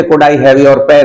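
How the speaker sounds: slow, polite, words spaced out; slow model question. Shown as a demonstration. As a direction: say it slowly so they repeat. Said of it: "तो बोलिए".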